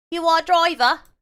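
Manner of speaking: put-on slurred-sounding drunk voice.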